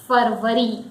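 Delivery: FEBRUARY as FUR-vuh-ree; Hindi pronunciation. Shown as a demonstration. Teacher introducing the second month in Hindi pronunciation. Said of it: "February is in Hindi".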